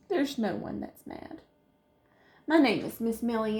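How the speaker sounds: fairy voice. Acted. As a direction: reveal yourself kindly.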